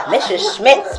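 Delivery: steady, measured book-reading voice; story reading. Acted. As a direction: read the chapter aloud to the audience. Author reads aloud from her book.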